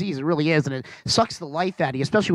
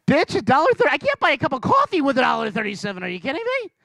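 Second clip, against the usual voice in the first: indignant; 6 semitones higher, faster than usual. Retold or imitated. Retort to Vanna, indignant.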